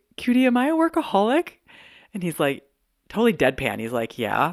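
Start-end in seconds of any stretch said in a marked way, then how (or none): 0.2-1.5 very high, on the verge of upset. Retelling a question to John after a workaholism quiz: acting out being near upset. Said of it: "kind of on the cusp of upsetness".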